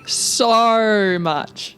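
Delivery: "so" held long in a put-on Australian accent; retry the O in "so", still drawn out; stretched mock-Aussie "so"; attempted Aussie O. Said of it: "just a short O".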